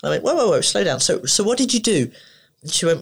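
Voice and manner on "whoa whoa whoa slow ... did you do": raised-pitch interrupting whoa; retold attempt to halt someone's rush. Acts calming the upset mum.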